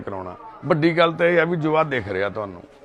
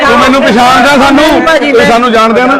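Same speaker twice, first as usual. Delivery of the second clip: loud coaxing; 9 semitones higher, 15 dB louder than usual. Real, not acted. Worker loudly coaxes the young men that it is for their own good. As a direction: coax them at full voice.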